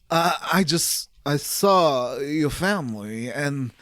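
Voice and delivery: lightly voiced psychic warning, slowed; a hint of a haunted seer foretelling doom; slow, eerie premonition, only lightly acted; Dead Zone vision. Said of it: "That was my Dead Zone impression".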